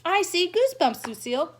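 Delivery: put-on high, loud excited yell of a boy; shout. Sheldon shouting out to Lucille that he sees goosebumps. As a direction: blurt it out, thrilled. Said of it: "shouted Sheldon".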